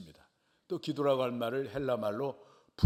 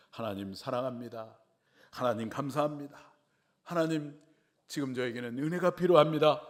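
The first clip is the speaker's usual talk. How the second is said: heartfelt prayer; 4 semitones higher, 3 dB louder than usual. Retold or imitated. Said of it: "큰 목소리를 듣기를 원하세요".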